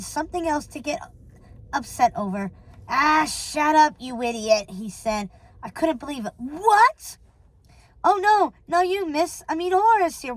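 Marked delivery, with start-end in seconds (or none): 2.9-4.7 drawn-out dismissive outburst; slow, exasperated put-down; irritated henchman. Acted. Henchman snaps at partner. 6.4-7.2 high, rising indignant cry; affronted, high-pitched exclamation; outraged disbelief. Acted. Outraged reaction on phone. 8.0-10.3 high, hasty backpedalling; higher-pitched apologetic crook; flustered henchman. Acted. Henchman backtracks to boss.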